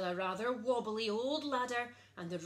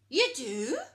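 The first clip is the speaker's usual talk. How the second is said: much louder surprised question; booming; 3 semitones higher, 11 dB louder than usual. A narrator's reading. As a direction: boom it out. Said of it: "boomed the princess".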